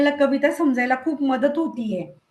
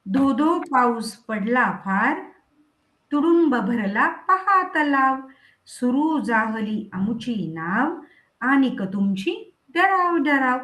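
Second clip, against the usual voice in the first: put-on slow, measured recital of a children's poem; poem recitation; slower than usual. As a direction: read the verse out to the class, line by line.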